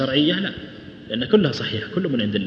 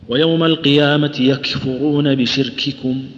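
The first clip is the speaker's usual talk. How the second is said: slow, measured tajweed recital; deliberate teacher's recitation; Quranic recitation; 4 dB louder, slower than usual. Shown as a demonstration. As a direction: recite the verse slowly and firmly.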